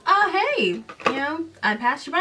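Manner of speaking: high, loud casual greeting; mock breezy boy. Boy greets the girl on the trail, high and breezy. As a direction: toss it off like a carefree boy. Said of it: "And he's like".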